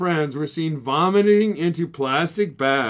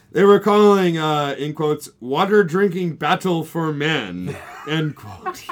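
laughing; 2 semitones higher, 4 dB louder than usual. Real, not acted. Reading a quote, cracking up.

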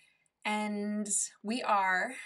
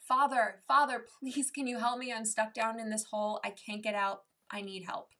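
mock shout; 3 dB louder than usual. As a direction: call up to a passer-by, then plead. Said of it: "the guy shouts up".

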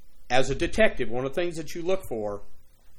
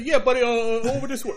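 higher, lightly mimicked New Jersey accent; slipping into Jersey accent; 10 semitones higher, 5 dB louder than usual. Detective answers stranger, lightly copying Jersey accent. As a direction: echo his Jersey way of talking back at him. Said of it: "Why are you talking like that? You from Jersey?".

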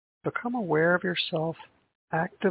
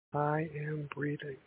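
softly spoken affirmation; 6 dB quieter, slower than usual. Shown as a demonstration. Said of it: "you can silently say".

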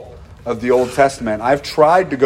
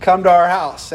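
urgent calling; 3 semitones higher than usual. Retold or imitated. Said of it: "they go".

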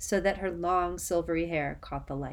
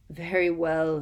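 louder irritated snap; snapped; 5 dB louder than usual. Acted. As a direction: snap it impatiently. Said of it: "Snape snapped".

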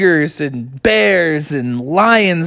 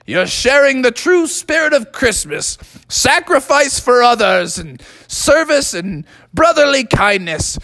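slightly raised, hearty father voice; a hint of a dad praising his son; proud dad; 5 semitones higher than usual. Dad praises his son's Christmas spirit, lightly voiced proud father. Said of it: "And Froggy's dad said".

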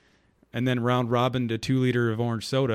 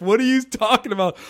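confused friends; 10 semitones higher, 8 dB louder than usual. Retold or imitated. Friends reacting, laughing retelling.

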